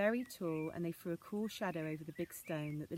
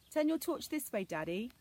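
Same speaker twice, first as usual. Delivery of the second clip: high, louder pleading; begging; 6 semitones higher, 5 dB louder than usual. Acted. Anna begging father to shine the torch. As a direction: plead with him eagerly. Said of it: "she begged".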